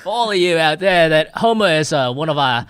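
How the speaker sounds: loud, shaky-footed attempt at an Australian accent; badly faked Aussie accent. Shown as a demonstration. Host embarrassed before Australian crew member, attempting an Aussie accent. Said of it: "I'm doing an Aussie accent".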